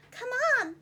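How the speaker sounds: little fish calling out; urgent call. Acted. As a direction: urge a friend to hurry. Striped fish urging friend.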